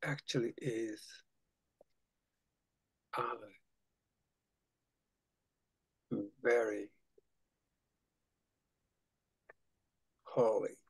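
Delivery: intimate whisper. Shown as a demonstration. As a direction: whisper it to yourself. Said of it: "repeat that very intimately to yourself".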